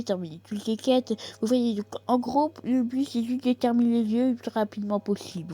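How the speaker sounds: lightly voiced know-it-all nerd. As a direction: explain it like an eager nerd. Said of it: "avec ma voix de nerd".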